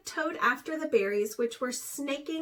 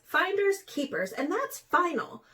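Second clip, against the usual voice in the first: higher, taunting refusal; defiant ant; 5 semitones higher than usual. A narrator's reading. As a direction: refuse smugly.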